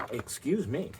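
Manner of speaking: ordinary delivery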